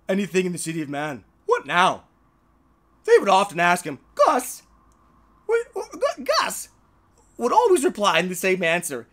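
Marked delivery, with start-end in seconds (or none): 4.2-6.7 calling out. Acted. Cow's name called out.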